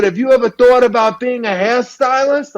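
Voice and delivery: pitched high, eager question; Harvey Fierstein. Retold or imitated. Head of the school recruiting the boy, high eager voice. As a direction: pitch him the idea brightly. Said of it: "he sounded like Harvey Fierstein".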